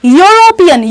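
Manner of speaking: यूरोपियन with the opening "yo" sounded; demonstrated pronunciation. Shown as a demonstration. Teacher points out the first sound, demonstrated यूरोपियन. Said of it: "यो आ रहा है".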